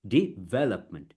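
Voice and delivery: DEVELOPMENT as dee... VEL-up-ment; stressed syllable. Shown as a demonstration. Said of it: "the stress words".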